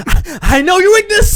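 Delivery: high, loud mock villain taunt; hammed-up taunt. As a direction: gloat like a cartoon baddie. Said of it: "you're like".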